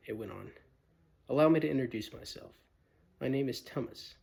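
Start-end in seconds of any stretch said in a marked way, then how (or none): 1.3-4.1 polite, nervous faun, quick at first; a timid faun asking carefully; shy faun. Acted. Fawn politely questions Lucy, lightly voiced nervous faun. Tumnus introduces himself.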